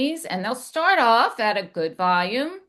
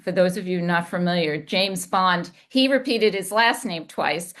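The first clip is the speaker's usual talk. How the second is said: ordinary talk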